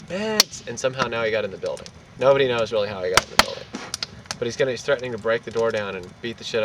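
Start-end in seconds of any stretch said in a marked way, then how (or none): 0.1-0.6 high-pitched mock call; retold yelling. Man calling up from the street, mock yell. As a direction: imitate a street yell at moderate volume. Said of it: "out on the street yelling".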